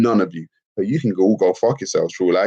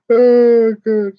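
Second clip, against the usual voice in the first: exasperated oh god; 7 dB louder than usual. Real, not acted. Reacting after a laugh.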